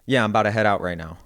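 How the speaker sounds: "about" with the unstressed diphthong flattened to "boutta", "out" keeping its full diphthong; local upstate pronunciation. Shown as a demonstration. Leaving work, showing how locals say "about" quickly. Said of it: "I'm gonna say it like that".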